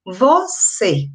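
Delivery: "você" in two beats, vo, then cê; split into syllables. Shown as a demonstration. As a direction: separate both syllables of "você". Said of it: "a mesma sílaba de".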